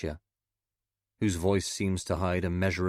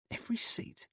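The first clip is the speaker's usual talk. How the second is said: exclaims; 7 dB quieter than usual. A narrator's reading. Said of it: "Sinclair exclaims".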